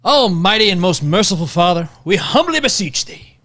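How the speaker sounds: put-on prayer read in a Southern accent. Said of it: "I'm not going Southern".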